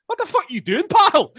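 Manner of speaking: high, angry Glasgow driver; Scottish driver yelling out his window; Glasgow street accent. Retold or imitated. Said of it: "he goes".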